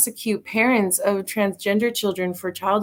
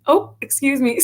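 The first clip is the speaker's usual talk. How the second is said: higher sing-song "Oh, excuse me" in an exaggerated upper Midwest accent; sing-song Dakota apology; 5 semitones higher than usual. Guest exaggerates North Dakotans apologizing, high sing-song accent. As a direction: lift the Oh high, overly polite Dakota lilt. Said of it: "it's always".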